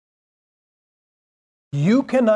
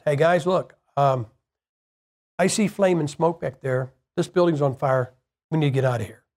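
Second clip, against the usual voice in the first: calm fire warning; 4 semitones lower than usual. Pretend. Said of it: "calm is probably a better way".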